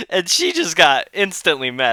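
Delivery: talking through leftover laughter; real giggles settling down as it goes; laughing. Real, not acted. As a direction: apologize while cracking up. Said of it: "this is making me laugh".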